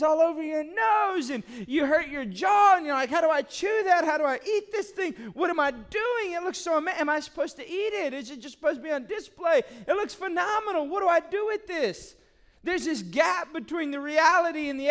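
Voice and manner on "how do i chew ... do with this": higher-pitched mock bewilderment; baffled cupcake eater. Someone facing a giant cupcake, hammed-up bafflement. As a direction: pile up the questions in exasperated confusion.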